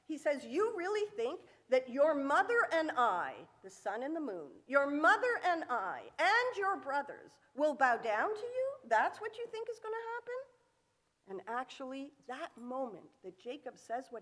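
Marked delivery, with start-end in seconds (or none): 0.4-10.4 a touch of a scolding father; incredulous, rising at the end; mild berating. Retold or imitated. Jacob berating Joseph over the dream, mildly scolding. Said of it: "He berates him".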